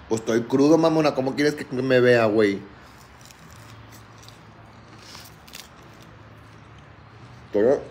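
groggy, worn-out hungover voice. Real, not acted. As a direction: sound rough and hungover. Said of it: "estoy bien crudo".

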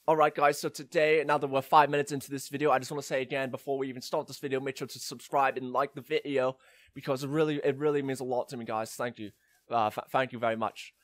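put-on British-accented vlogger patter; British YouTuber. Mock YouTuber begging for subscribers, British accent. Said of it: "a British person saying".

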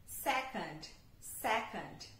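"Second" with a reduced middle schwa. Shown as a demonstration. Teacher models the schwa in the word for students. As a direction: soften the vowel in "Second". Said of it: "Um A bem sutil".

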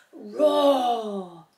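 low, drawn-out little roar; gentle mock roar. Teacher voicing the hidden jungle animal, mild roar. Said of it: "And it says".

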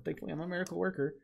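rattled off fast and high; fast quip. Shown as a demonstration. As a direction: blurt it out quick and cocky. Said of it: "I'm honest, a miracle worker".

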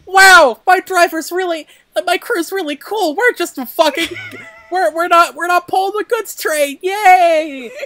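high, mock-giddy chatter; oblivious glee. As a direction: gush happily, totally unaware. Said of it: "he's just so fucking unaware. He's like".

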